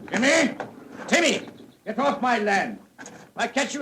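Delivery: calling sharply across the land; angry landowner calling out; shouting after boy. Acted. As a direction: yell the name to stop him. Angry squire yelling after boy.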